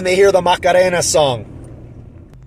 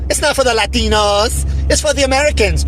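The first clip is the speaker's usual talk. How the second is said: higher-pitched mock of a condescending commentator; condescending mimicry; 5 semitones higher than usual. Podcaster quotes commentator mocking Latinos, condescending higher-pitched mimicry. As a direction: lightly mimic her talking down, pitch lifted. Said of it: "in a condescending, faking their accents".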